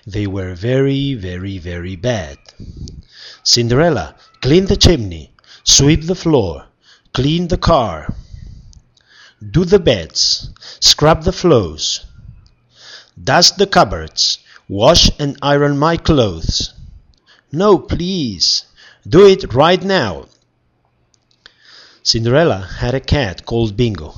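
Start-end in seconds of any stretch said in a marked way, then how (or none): 3.4-16.7 wicked stepmother. Acted. Stepmother ordering Cinderella around. 17.5-20.3 wicked stepmother. Acted. Stepmother insists.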